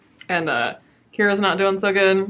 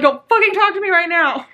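mock snap; 9 semitones higher, 6 dB louder than usual. Imitating self after stubbed toe.

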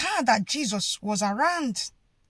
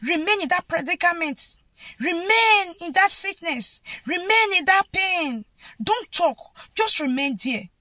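oppressive command; 4 semitones higher than usual. Retold or imitated. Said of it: "they are telling you".

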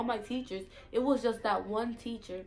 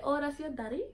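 higher islander question, rising sharply at the end; Virgin Islands accent; 5 semitones higher than usual. Retold or imitated. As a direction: imitate a curious Saint Thomas local. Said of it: "Like, they'll be like".

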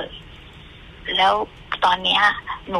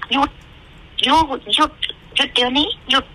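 higher, urgent repeated stop; commanding stop; 6 semitones higher than usual. Retold or imitated. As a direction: snap out the order to stop again and again. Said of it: "แบบเขาสั่งอะ". (ตะโกนสั่งให้หยุด)

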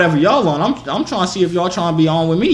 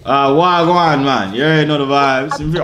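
put-on Jamaican accent.

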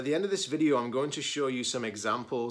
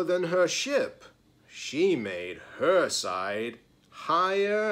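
storytelling with drawn-out comparisons; picture-book narration; 3 semitones higher, 6 dB louder, slower than usual. A narrator's reading. Reader tells children of two rivals outbuilding each other, expressive storytelling. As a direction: stretch the key words for young listeners.

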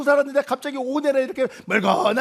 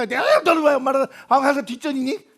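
mother protests she always comes last; complaining mother. Acted.

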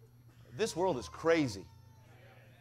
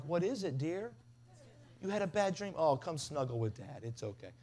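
put-on softer, soothing voice for a scared child; tender parent; 3 dB quieter than usual. Dad comforting kid after bad dream, soft and tender. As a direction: hush and soothe like a gentle dad. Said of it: "you wanna be really nurturing".

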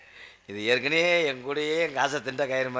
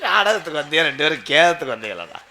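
exasperated scolding; 4 dB louder than usual. Acted. Suitor scolds the wailing siblings.

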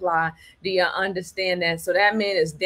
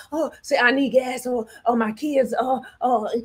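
higher, lightly whiny plea; whiny family member; 4 semitones higher than usual. Retold or imitated. Family member begging for gas money, higher mock whine. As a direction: mimic a needy relative. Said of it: "A family member used to do this".

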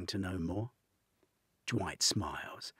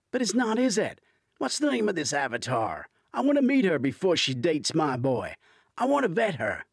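Hunter's protective voice; 11 semitones higher, 10 dB louder, faster than usual. A narrator's reading.

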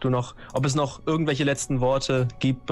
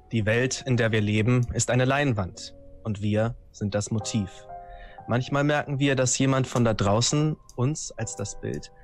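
ominous intro reading. A narrator's reading. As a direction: read it like a dark prologue. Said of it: "einleitende Worte verlesen".

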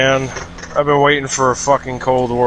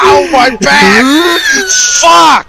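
yelling in pain after falling; hurt shouting, high and loud; tripping and falling; 11 semitones higher, 4 dB louder than usual. Real, not acted. Fell, hurting his back.

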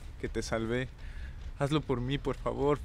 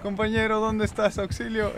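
high frantic yelling for help; panicked screaming; 10 semitones higher, 6 dB louder, slower than usual. Real, not acted. Chased by killer, panicking.

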